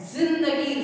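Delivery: जिंदगी opening on a strong z buzz; buzzing z demo. Shown as a demonstration. Teacher pointing out the sound, जिंदगी with buzzing z. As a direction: hit the z starting जिंदगी. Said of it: "आवाज आ रही है".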